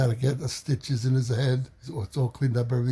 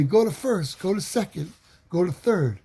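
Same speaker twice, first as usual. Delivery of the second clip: higher excited cheering call; excited kids calling out; 5 semitones higher than usual. Retold or imitated. Kids at the playground cheer the runner, excited high calls. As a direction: urge the runner on like kids on a field.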